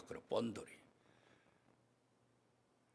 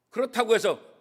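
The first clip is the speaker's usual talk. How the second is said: ordinary delivery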